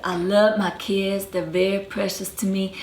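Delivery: Georgia accent quote, retold; Georgia R-dropping accent. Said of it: "She said".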